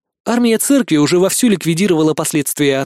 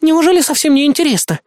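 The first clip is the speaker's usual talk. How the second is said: put-on higher, outraged young woman; high protest, hurt curiosity; indignant girl; 11 semitones higher, 3 dB louder than usual. A narrator's reading. Helen protests to the narrator that he is not curious, indignant. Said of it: "возмутилась она".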